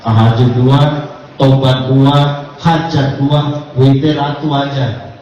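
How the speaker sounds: "Tahajud dua, tobat dua, hajat dua" at half speed, each count stressed; slow, spelled-out list. Shown as a demonstration. Preacher repeats the prayer counts slowly for pilgrims. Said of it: "Kan Islam nggak apa-apa".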